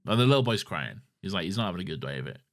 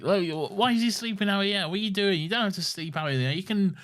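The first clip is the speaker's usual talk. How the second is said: 1 kindly adult voice; 10 semitones higher than usual. Retold or imitated. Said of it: "No, they're like".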